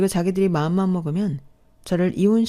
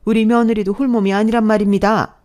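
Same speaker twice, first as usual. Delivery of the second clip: loud emphatic declaration; indignant retort; 4 dB louder than usual. Acted. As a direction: slam the point home. Mother-in-law retorts to stepmother.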